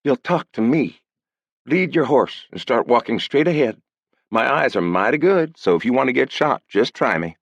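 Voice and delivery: steady commanding threat; girl ordering him forward; young woman. Acted. Girl voiced giving orders.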